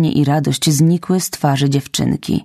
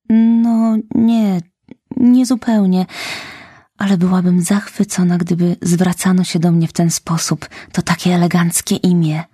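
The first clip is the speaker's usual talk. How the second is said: put-on dreamy girl; 4 semitones higher than usual. Anne dreaming of a name.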